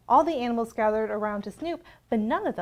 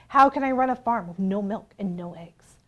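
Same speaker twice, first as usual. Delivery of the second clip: plain reading voice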